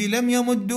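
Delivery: "يمد" ending in "u", yamuddu; damma ending. Shown as a demonstration. Teacher recalling the earlier jussive forms, "يمد" with damma. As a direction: say "يمد" with doubled d and "u". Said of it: "الضم يجوز تبعا لضمة العين".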